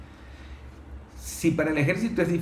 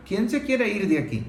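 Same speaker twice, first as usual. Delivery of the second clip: a hint of a commanding soldier's voice; imitating a soldier; 5 semitones higher than usual. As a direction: call out like an army officer clearing an illegal mine. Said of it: "un militar que le está diciendo a, a ellos".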